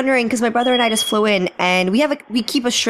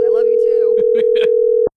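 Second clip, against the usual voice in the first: slow mock reply; 3 semitones higher, 5 dB louder, much slower than usual. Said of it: "someone goes".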